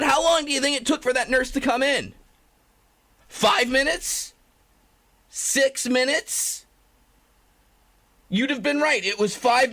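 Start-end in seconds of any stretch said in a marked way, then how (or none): 3.3-6.7 slow teasing guess. Real, not acted. Quizzing the viewers.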